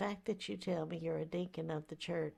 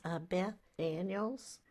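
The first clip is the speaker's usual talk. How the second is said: a touch of a trembling, upset voice; shaky vibrating voice; 7 dB louder than usual. Acted. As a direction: tremble slightly, voice wavering. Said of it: "my voice is shaking".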